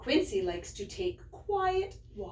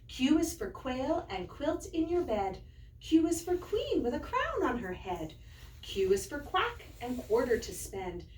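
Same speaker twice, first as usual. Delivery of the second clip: rhyme recitation. Acted.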